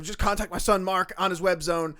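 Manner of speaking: a lightly voiced grandfather bragging about his son. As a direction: play a proud doddering grandpa. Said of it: "my grandfather".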